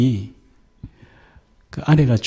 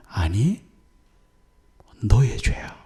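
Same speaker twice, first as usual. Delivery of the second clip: God's verdict; 4 dB quieter, slower than usual. Retold or imitated.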